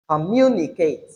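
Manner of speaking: comMUnicate, falling away after the stressed syllable; stress on second syllable. Shown as a demonstration. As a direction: lean on MU in "communicate". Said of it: "pay attention to where you have the stress".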